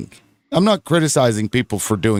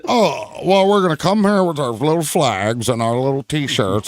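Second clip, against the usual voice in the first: put-on sweet, childish protester voice; mock naive protester. Host mocking protesters with flags, dopey twee voice.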